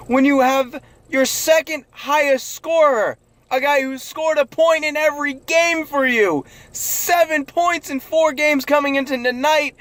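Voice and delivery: exasperated fan yelling at the coach; frustrated yelling. Real, not acted. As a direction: berate him, pitch climbing. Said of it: "I'm sorry I'm yelling".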